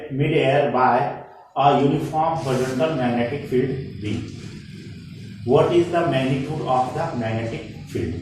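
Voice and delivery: very slow, word by word problem read; slow dictation. Acted. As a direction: read the question out slowly so students can copy it. Reads out the numerical problem.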